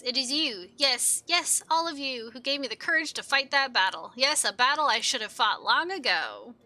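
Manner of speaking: earnest, animated kobold voice; grateful kobold Gigu. Acted. Gigu thanking comrades after the battle, grateful. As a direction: gush thanks like a proud little hero.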